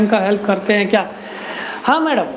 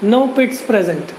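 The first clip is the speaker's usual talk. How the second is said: each word drawn out, very slow; slow, deliberate teacher dictation; 2 semitones lower, much slower than usual. Shown as a demonstration. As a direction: spell it out slowly for notes. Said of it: "albuminous सेल्स में पिट्स नहीं होंगे".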